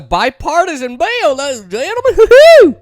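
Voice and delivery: climbing high into a loud hoot; mock fanfare. Host hypes the bipartisan bill, mock fanfare. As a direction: announce it like a showman, pitch soaring.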